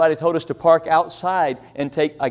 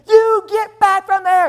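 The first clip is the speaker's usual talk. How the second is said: lady scolding; 13 semitones higher, 5 dB louder, slower than usual. Retold or imitated. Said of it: "and she said".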